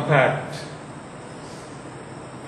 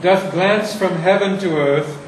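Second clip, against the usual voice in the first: poetry reading. Shown as a demonstration. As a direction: read the verse to the class, weighing each line. Reads Shakespeare passage aloud.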